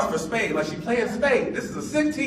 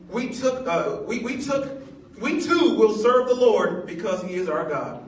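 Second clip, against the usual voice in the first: scripture reading. Acted. Reads the people's scripture reply.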